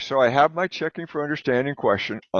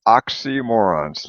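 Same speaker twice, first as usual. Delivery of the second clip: oxymorons drawn out slowly in clear parts; slow model; slower than usual. Shown as a demonstration. Teacher models the next vocabulary word slowly. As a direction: sound out oxymorons part by part. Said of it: "two parts".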